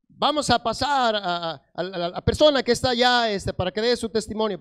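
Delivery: lightly voiced pastor announcing a testimony; pastor leading the meeting. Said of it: "el pastor que estaba dirigiendo dice".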